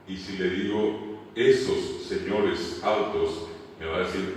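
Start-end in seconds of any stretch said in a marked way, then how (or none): 1.3-3.5 "Esos señores altos" drawn out, plural endings clear; slow example, word by word in "Esos señores altos"; slow dictation. Shown as a demonstration. Example phrase dictated for translation.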